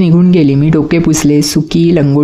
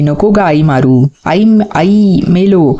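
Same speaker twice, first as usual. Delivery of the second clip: crying out; slower than usual. Acted. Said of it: "मी ओरडू लागलो".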